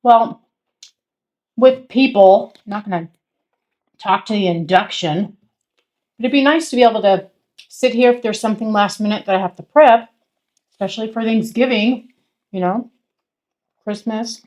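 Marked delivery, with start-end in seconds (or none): 2.7-14.4 talking through a mouthful; mouth full. Real, not acted. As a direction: speak round a bite of steak. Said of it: "Quit talking with your mouth full".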